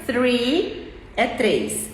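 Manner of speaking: "Three" bem devagar, com th entre os dentes; slow three. Shown as a demonstration. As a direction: arraste "Three" com th soprado. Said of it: "exemplo muito básico". ("Three" lento, língua entre os dentes)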